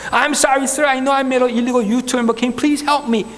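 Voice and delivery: slow, careful broken English to a policeman; nervous speaker pleading slowly in English; halting slow English. Retold or imitated. Driver pleading with a policeman, slow halting English. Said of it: "영어로 그냥 막, 막 했죠".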